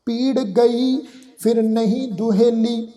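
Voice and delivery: measured verse reading, paused between phrases; scripture recitation. Shown as a demonstration. Teacher reading a shabad to the congregation, measured recitation. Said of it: "ਅਸੀਂ ਸ਼ਬਦ ਪੜ੍ਹਦੇ ਆ".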